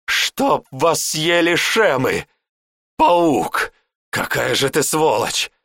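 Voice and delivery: enraged warlock cursing the betrayer; raging curses. Acted. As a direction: hurl every curse at him. Warlock curses the traitor servant.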